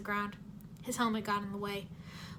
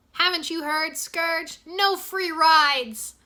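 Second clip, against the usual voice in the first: loud, higher, very slow movie catchphrase; Jay playing a hero, taunting the villain with a slow loud catchphrase; hammed-up action hero Fritz Donegan; 6 semitones higher, 11 dB louder, much slower than usual. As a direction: deliver it like a cheesy hero line. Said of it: "still pretending he was Fritz Donegan".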